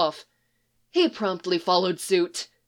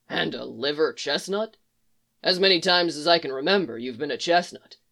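gruff Geralt; 3 semitones lower than usual. Acted. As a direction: keep it low and terse.

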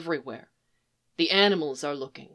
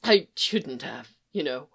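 sniffling; 4 semitones lower than usual. Acted. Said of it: "Tumnus sniffed".

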